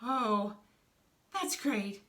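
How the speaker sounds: high, stammering tearful character voice; acted fearful whimper, rising loud; scared, near tears. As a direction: stammer and wail as if about to cry. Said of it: "He's so afraid of him".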